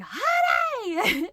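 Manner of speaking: high loud call across the driveway. Retold or imitated. Wife calling husband out of the garage, loud high call. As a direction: shout his name urgently.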